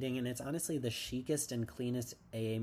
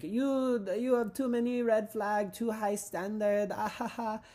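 high, loud mock hairdresser; exaggerated high-pitched put-on voice, drawn out at the end; hairdresser impression; 10 semitones higher, 6 dB louder than usual. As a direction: play a scolding hairdresser, hammed up. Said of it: "gay hairdresser 'cause he's like".

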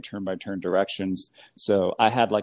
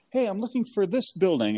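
mock shout; 10 semitones higher than usual. Lost driver to people on the sidewalk, mock shout. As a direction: imitate hailing strangers from a car. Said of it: "shout at people on the sidewalk".

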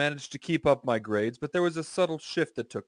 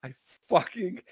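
exasperated aside; 6 semitones higher than usual. Real, not acted. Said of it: "I fucking hate this person".

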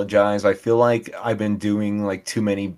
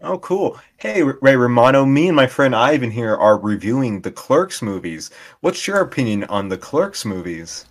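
hammed-up bit voice; 5 semitones higher, 6 dB louder than usual. Improvised Ray Romano role-play.

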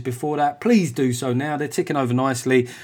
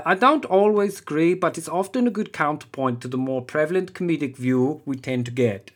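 put-on accent slipping into posh English; German impression gone posh; 2 semitones higher than usual. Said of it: "This now went posh".

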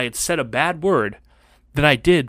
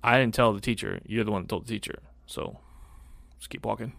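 cold mutter; 4 semitones lower, 10 dB quieter than usual. Retold or imitated. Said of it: "I'm like".

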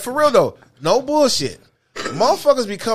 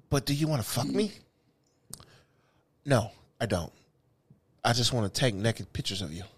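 mock polite reply; 8 semitones lower, 5 dB quieter than usual. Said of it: "I was like".

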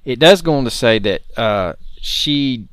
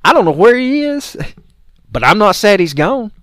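raised, high voice quoting her; loud mock declaration; 8 semitones higher, 8 dB louder than usual. Host quoting the woman's television statement, loud and high. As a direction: proclaim her quote loudly, relishing it. Quotes neighbour, delighted, to co-host.

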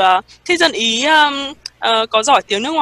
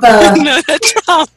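mock Italian Trump; 3 semitones higher, 6 dB louder, much slower than usual. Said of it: "echoing the Italian version".

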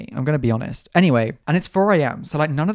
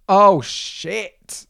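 startled; 5 semitones higher, 6 dB louder than usual. Real, not acted. Sees a man's silhouette.

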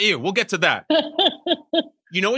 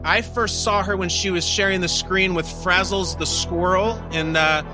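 game show host; 3 semitones higher than usual. Acted.

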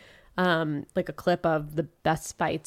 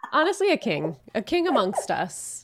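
amused, laughing through the words; real laughter breaking into a high-pitched reaction; 4 semitones higher than usual. Real, not acted. Amused reaction to savage quote.

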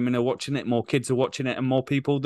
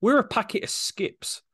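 mock disbelief; 5 semitones higher than usual. Real, not acted. Mocking the crisp-sponsored team shirt.

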